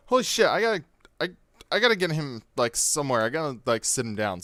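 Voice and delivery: high, flustered and stammering; panicked girlfriend. Retold or imitated. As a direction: fret like you must move him now. Girlfriend panicking, voiced by teller.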